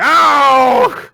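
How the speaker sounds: a loud, high British "Ow!"; shouted British "Ow!". Retold or imitated. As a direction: yelp it like a British lad. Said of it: "why did you say it's so British".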